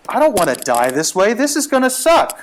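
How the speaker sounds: mock panicked wail rising high on the end; retold dread. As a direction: play up the doomed whining, climbing in pitch. Retold dread in sinking boat.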